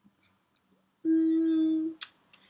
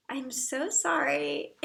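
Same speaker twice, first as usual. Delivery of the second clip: laughing apology; slower than usual. Real, not acted. Apologising to Julie after mishearing.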